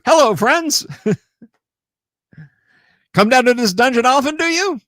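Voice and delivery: a sly monster pretending to be a friendly bucket; talking bucket mimic greeting the party, high and sly.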